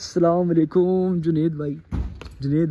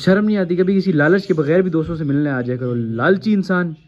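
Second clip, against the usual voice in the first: teasing scold, a bit louder; mock scolding; 5 dB louder than usual. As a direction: tell the greedy friend off jokingly. Scolding greedy friend jokingly. (दोस्त को लालची कहकर मज़ाक में डाँटते हुए)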